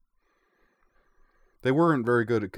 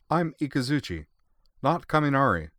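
put-on high, bright young girl with a grin; cheeky young girl, pitched high; grinning girl; 7 semitones higher, 3 dB louder than usual. A narrator's reading. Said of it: "she added with a grin".

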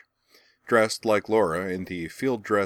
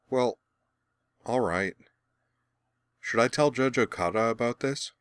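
put-on higher, hesitant young boy; reluctant boy voice; 4 semitones higher than usual. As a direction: agree grudgingly like a boy.

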